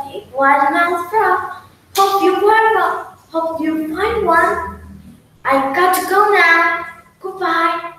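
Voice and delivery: high squeaky little voice. Acted. Frog squeaking to the crocodile, high and small. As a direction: squeak it out, tiny and scared. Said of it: "He said with a squeak".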